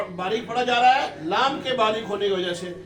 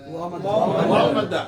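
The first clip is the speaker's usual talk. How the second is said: drawn out; 4 semitones lower, 3 dB louder, much slower than usual. Shown as a demonstration. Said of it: "वाव साकिन से पहले".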